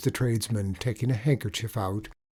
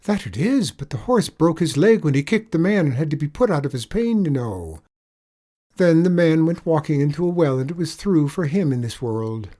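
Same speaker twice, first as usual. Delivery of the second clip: higher, louder leprechaun lilt, mock pity; sly leprechaun; 6 semitones higher, 7 dB louder than usual. Leprechaun spinning a pitiful tale for the tradesman, higher lilt. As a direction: lay the sorrow on thick.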